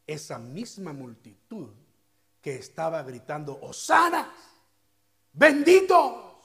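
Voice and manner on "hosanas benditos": high, loud cheering cry of praise; crowd cheering. Acted. The Palm Sunday crowd cheering for Jesus, loud and high. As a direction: hail him like a jubilant crowd.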